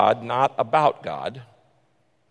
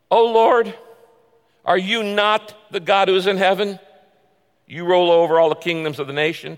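scripture reading; 3 semitones higher than usual. Acted. Preacher reading a psalm of lament to the congregation, earnest. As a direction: read the lament with feeling. Preacher voices Jehoshaphat's prayer.

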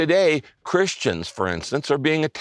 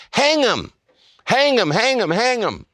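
crowd shouting; 9 semitones higher than usual. Retold or imitated. Preacher voicing the crowd's hanging chant. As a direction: call for hanging like an angry mob. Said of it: "the unmerciful crowd shouted back".

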